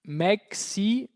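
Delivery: "Mexicaine" broken slowly into syllables, N sounded; released final N. Shown as a demonstration. Teacher writes the feminine, "Mexicaine" slowly with released N. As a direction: spell out "Mexicaine" by ear, syllable by syllable. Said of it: "el sonido de la N se libera".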